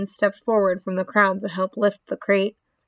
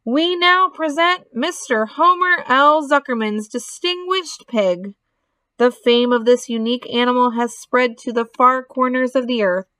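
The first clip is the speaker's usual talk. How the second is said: loudspeaker announcer; 3 semitones higher than usual. Acted. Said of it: "said the loudspeaker".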